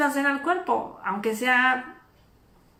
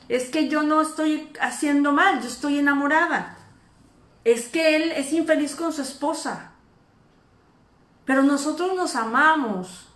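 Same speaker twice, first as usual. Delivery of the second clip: defensive woman; 4 semitones higher, 4 dB louder than usual. Retold or imitated. Woman excusing her affair.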